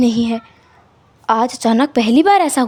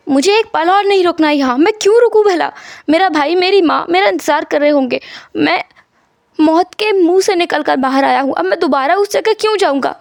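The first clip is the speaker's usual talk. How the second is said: lightly voiced patient, mildly agitated protest; a touch of indignant insistence; defiant patient; 3 semitones higher than usual. Wang argues with doctors to leave.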